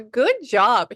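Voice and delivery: high, loud relayed cheer; excited praise. Retold or imitated. Medium relaying a spirit's praise, excited. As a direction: pass on the cheer at high pitch. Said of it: "He just went".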